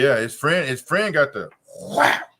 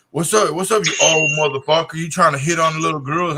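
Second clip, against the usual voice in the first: put-on louder, jeering drunk taunt; mock taunting shout; 3 semitones higher, 4 dB louder than usual. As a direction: bark it like the drunk college guy mocking him. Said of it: "they're telling me".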